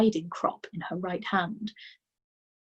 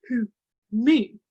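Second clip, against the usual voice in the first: puzzled; 4 semitones higher, 7 dB louder than usual. A narrator's reading. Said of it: "looking genuinely puzzled".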